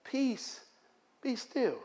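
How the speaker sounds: soft, hushed command; quiet authority; calm command. Acted. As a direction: still the storm gently. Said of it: "Jesus calms the storm and said".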